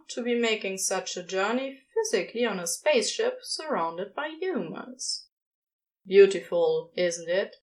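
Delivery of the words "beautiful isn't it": awed sigh. Acted. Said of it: "sighed in awe".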